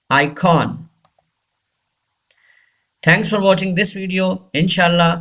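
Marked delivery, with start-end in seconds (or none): 0.1-0.9 icon as "EYE-kawn"; icon, second syllable clearly "kawn"; full O vowel. Shown as a demonstration. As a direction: say icon with a full open "kon" at the end. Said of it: "don't say icon".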